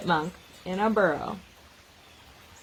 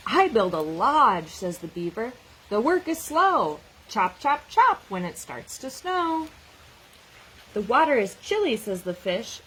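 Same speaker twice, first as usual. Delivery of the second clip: lively picture-book read-aloud with animal voices; reading to children. Acted. Teacher reading a snow book to children, lively read-aloud. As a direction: read it out like story time for a class.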